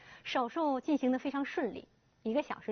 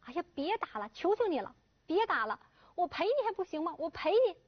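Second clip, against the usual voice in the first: begging; 6 semitones higher than usual. Acted. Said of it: "不断的哀求".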